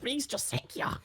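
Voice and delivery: a hint of an anime tour guide; lightly voiced tour guide. Imitating Ranma's tour guide for friends, lightly put-on accent. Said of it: "you remember the tour guide from Ranma".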